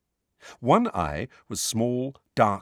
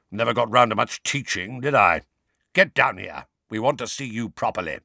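growling voice. Acted. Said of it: "growled the voice".

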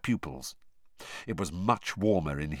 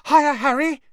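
high, loud eager greeting; high, loud, thrilled young boy; excited call; 9 dB louder than usual. Acted. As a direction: call down the table in a rush. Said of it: "highly excited, breathless voice called".

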